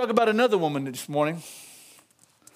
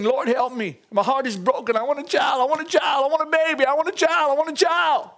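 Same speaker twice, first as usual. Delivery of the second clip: mild retold plea, building in pitch and urgency; a mock-desperate prayer that climbs with each repeat; pleading cry; 3 semitones higher than usual. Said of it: "after Hannah's crying out for".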